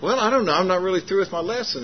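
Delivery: lightly imitated defensive reply; hesitant hedging. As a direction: play a preacher caught unprepared. Louis hedging to the stranger, retold.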